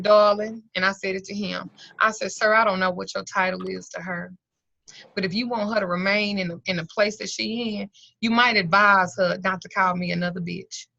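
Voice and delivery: measured, controlled address; composed and businesslike warning; matter-of-fact. Retold or imitated. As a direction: state the warning evenly, as simple fact. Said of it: "You gotta be very matter of fact".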